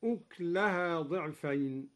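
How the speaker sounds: أكلها said uklaha, the ك with no vowel; sukun on kaf. Shown as a demonstration. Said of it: "وسكن كاف أكلها هكذا".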